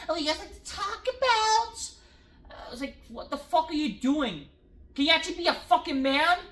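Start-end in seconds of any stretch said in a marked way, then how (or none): 0.1-1.9 high-pitched, hammed-up excited mimicry; mock an overexcited wrestler's big line. Imitating Cody greeting the crowd, mock excited. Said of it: "he's so fucking excited". 3.1-6.4 retold exasperation, pitched up and building; exasperated outburst. Fan retelling his reaction to the wrestler, exasperated.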